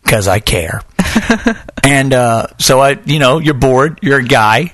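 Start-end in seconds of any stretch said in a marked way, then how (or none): 0.9-1.8 high giggle. Real, not acted. Laughs at own joke.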